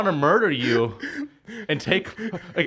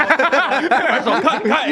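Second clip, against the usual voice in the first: higher, louder shout to the crew; urgent mock call-out; 7 semitones higher, 5 dB louder, much slower than usual. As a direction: frantically call a cut. Imitates TV crew cutting away.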